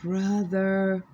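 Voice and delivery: lightly put-on African woman's accent; a touch of an African woman's accent; African female accent. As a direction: call him in a faint African woman's accent. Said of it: "in their voice".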